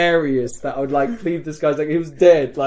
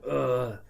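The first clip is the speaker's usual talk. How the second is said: soft woozy grunt; mock groan of a dazed casualty; faint play-acted "ugh"; delirious groan; 4 dB quieter than usual. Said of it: "I was, like, really delirious".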